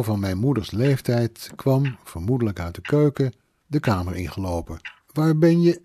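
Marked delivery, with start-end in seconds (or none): 5.1-5.8 higher, louder question cut short; breaking off startled. A narrator's reading. Mother walks in on a stranger, breaking off startled. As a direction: start asking, then falter. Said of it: "Ze stokte".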